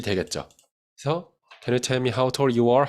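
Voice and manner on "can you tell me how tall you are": slow model sentence. Shown as a demonstration. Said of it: "물음표를 여기다가 딱 찍어주면".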